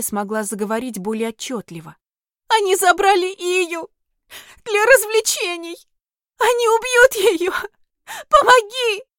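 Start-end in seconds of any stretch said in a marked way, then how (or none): 2.5-9.0 very high, loud, sobbing plea; begging in tears for her sister; tearful plea. Acted. Fairy Sonya begs the heroine to save her sister, sobbing high. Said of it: "Рыдания стали тише".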